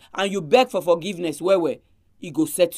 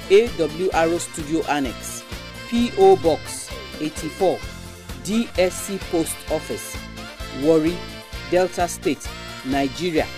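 slow dictation; 3 semitones lower than usual. Shown as a demonstration. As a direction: address read slowly for listeners. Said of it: "I go take am again".

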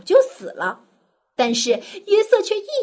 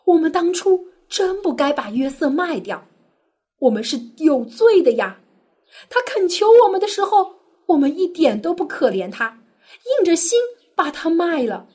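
higher, frightened confession to each other; terrified remorse; 5 semitones higher, 3 dB louder than usual. Acted. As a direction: brothers gripped by guilt and fear. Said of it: "吓得魂不附体". (惊恐又悔恨地说)

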